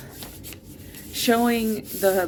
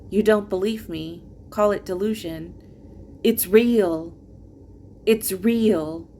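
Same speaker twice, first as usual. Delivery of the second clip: measured, earnest spoken-word delivery; poetry reading. Acted. Poet reading first book to listeners, earnest recital. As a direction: read it as a personal poem, line by line. Reads own poems aloud.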